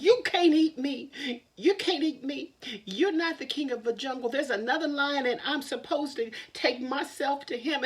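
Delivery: rabbit squeaks up high to the big lion; high rabbit voice, pleading. Acted. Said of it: "I said".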